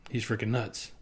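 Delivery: hushed gossiping whisper. Retold or imitated. Imagined viewers whispering that he is crazy. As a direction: mutter it behind his back.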